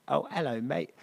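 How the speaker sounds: American doing a British hello; mock British accent. Americans parroting the comedian's accent back, mock British. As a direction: put on a cheery British greeting. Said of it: "it's the one accent it feels like it's okay".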